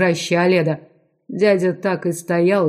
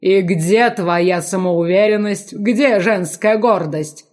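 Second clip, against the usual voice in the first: ordinary delivery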